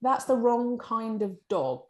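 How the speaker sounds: high, fussy, nitpicking voice; pedantic editor. Retold or imitated. Editorial head nitpicking the cover dog, high and fussy. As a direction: play the fussy editor correcting the dog breed. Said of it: "And editorial will go".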